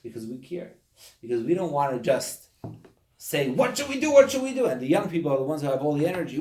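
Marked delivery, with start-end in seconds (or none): 3.5-4.7 high, loud, insistent pestering; mock clamouring. People pestering their rabbi for something to do, mock clamouring. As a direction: imitate people pleading at full pitch.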